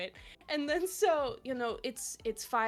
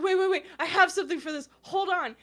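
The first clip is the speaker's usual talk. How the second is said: high, loud, laughing panic; hurry, flustered and giddy; panicking; 8 semitones higher, 8 dB louder, faster than usual. Retold or imitated. To her fiancé mid-proposal, a high loud laughing panic. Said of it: "And then I start panicking".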